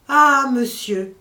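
loud, slow anguished cry of alarm; terrible cry. Acted. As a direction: drag out a terrified wail. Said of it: "cria ces simples mots, mais trois fois répétés". (cri terrible, fort et lent)

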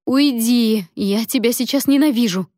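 high, loud furious order; angry outburst. Acted. Labouring Lia orders Alen out, angrily crying out.

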